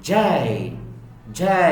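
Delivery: জে with a J start, drawn into a glide; correct J. Shown as a demonstration. Teacher drilling the letter J, correct sound. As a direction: model a careful জে. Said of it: "it will be".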